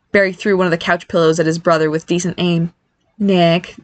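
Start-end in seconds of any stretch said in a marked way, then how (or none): 3.2-3.8 understated motherly reproof; mild censure. Acted. Mother checks son for teasing, mild censure. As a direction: gently check him with his name. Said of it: "Dania censured mildly".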